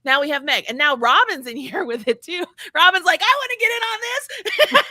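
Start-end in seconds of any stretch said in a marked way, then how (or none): 3.2-4.8 high, loud pretend excitement; excited mock eagerness. Host voicing Robin wanting in on the fun, excited mock eagerness. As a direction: play an overeager fan squealing to join in.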